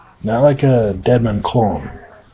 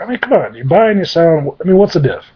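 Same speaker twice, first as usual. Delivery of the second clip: high protesting demon; 6 semitones higher than usual. Acted. Demon protests, pitch jumps.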